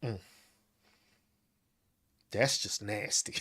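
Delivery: soft, low disgusted murmur; disgusted squirrel. Acted. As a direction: mutter it with disgust. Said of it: "The squirrels look at y'all and disgust like".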